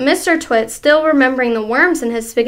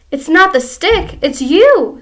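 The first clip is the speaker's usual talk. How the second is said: grinning horribly; 5 semitones higher, 7 dB louder than usual. Acted. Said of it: "grinning horribly".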